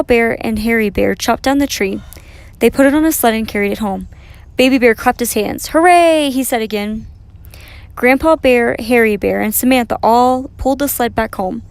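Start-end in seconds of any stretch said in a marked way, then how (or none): 5.7-6.3 high, loud, drawn-out cheer; joyful cheer. A narrator's reading. Baby Bear claps his hands, joyful cheer. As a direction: cheer it out with delight.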